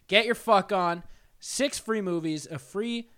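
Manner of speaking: upbeat sponsor read, brisk; host reads the sponsor spot, upbeat. Acted. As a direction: sell it like a podcast ad.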